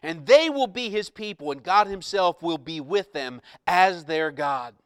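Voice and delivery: loud, slow voice from the throne; loud proclamation. Acted. Preacher reading the throne's announcement, loud proclamation. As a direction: declare it with force, stretching the words. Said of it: "I heard a loud voice".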